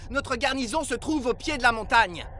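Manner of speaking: calling out officially. Acted. Soldier summons the Rusty Knight out of a tavern, calling out officially. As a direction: announce yourselves like soldiers at the door.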